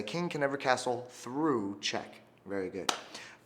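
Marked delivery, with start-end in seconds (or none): 0.0-2.2 slow call-and-response. Shown as a demonstration. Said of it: "everyone say".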